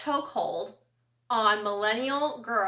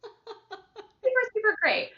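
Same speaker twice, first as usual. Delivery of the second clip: sarcastic praise; 11 semitones higher, slower than usual. Acted. Sarcastic aside after thanks.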